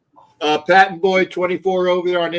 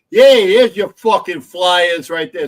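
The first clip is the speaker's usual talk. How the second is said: put-on failed Boston accent; 2 semitones higher, 6 dB louder than usual. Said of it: "Sorry, wrong accent".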